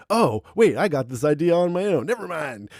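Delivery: imitating a cocky change of heart; mock attitude. Merle turning on Jesus, a touch of sneering attitude. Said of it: "gets an attitude about it".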